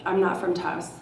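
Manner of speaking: nice, accommodating answer, retold; polite reply. Tourist nicely answering the tarot reader, politely. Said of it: "nicely said".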